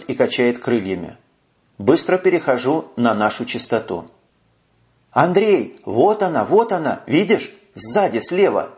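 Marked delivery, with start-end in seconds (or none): 5.1-8.7 urgent, higher radio shout; excited radio call. Acted. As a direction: call out the target eagerly. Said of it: "Звенит в шлемофоне голос Ангелики".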